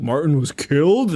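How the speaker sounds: lightly acted disbelief; mock incredulous question. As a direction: repeat it as a startled question. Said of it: "And somebody's like".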